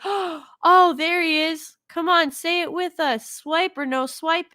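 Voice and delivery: high, bright-eyed mock cartoon host; hammed-up Dora. Dora rallying the kids, high mock excitement. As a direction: play it like a kids' show host cheering.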